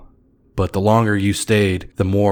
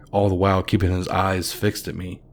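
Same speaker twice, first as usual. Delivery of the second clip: usual speaking voice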